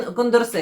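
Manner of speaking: Кондорсе stressed on its final е; stress on last syllable. Shown as a demonstration. Vlogger working out a French surname, Кондорсе with final stress. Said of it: "наголос на останній, е, склад".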